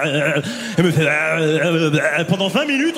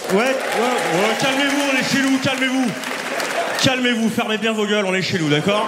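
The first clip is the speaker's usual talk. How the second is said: mock calming the crowd.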